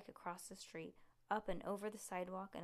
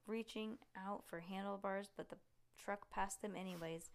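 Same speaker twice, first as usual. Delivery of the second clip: ordinary delivery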